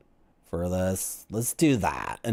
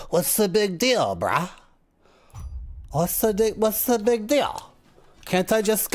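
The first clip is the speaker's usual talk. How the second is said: higher, casual "bruh" voice, mock-careless; careless tourist; 5 semitones higher than usual. His younger self brushes off the immigration officer, high and careless. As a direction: play yourself shrugging off the officer. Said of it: "And I'm like".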